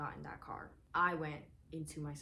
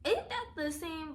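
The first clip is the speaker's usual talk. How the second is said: skeptical; 10 semitones higher, 3 dB louder, slower than usual. Retold or imitated. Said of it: "At first I was like".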